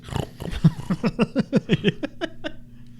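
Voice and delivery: rising, unvoiced-style bird screech from the mouth; imitated bird cry. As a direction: mimic a distant bird noise. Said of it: "you can hear in the distance".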